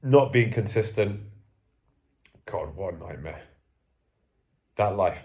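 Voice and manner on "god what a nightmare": softer, lower muttered dread; quiet dismay. Real, not acted. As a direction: shake your head at it, quietly. Despairs at his own lifestyle.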